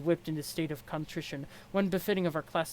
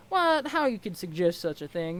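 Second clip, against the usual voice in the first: mock shock; 5 dB louder than usual. Feigned offended shock.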